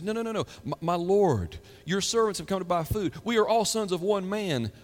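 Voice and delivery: pleading denial. Acted. Brothers pleading before Joseph.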